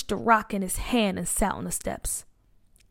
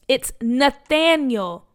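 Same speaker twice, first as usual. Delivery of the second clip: firm correction; 3 semitones higher, 4 dB louder, slower than usual. Acted. Boy correcting bully's name for him.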